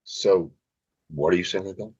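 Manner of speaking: understated, deadpan celebrity impression; underplay it with long gaps between phrases; Will Ferrell imitation. Shown as a demonstration. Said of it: "let me do my Will Ferrell imitation".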